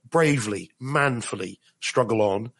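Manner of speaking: slow, mock-heroic wounded soldier; hammed-up brave soldier soldiering on; wounded soldier gasping. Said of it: "Go on without me, Sarge".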